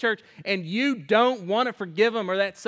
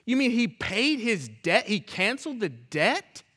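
surprised. Pretend. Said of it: "you should just be like".

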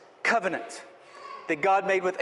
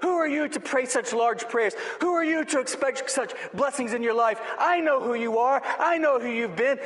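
higher-pitched, mildly mocked accusations; accusing; 4 semitones higher than usual. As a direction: hammer out each challenge like an accuser. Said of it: "the enemy begins shouting accusing thoughts".

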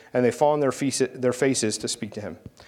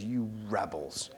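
softer, slow, low-key "You rebels"; quiet retelling; 3 semitones lower, 11 dB quieter, slower than usual. Retold or imitated. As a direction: say "You rebels" almost under your breath, drawn out. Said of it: "He says".

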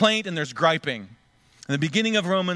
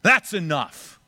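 sudden high loud shout of a fed-up dad; dad yelling; 5 semitones higher, 5 dB louder, slower than usual. Retold or imitated. Dad on a road trip yells at bickering kids, loud. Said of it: "Dad turns around and".

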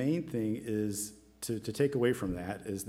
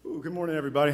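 out of breath; 6 semitones higher, 6 dB louder, much faster than usual. Real, not acted. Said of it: "Let me catch my breath here".

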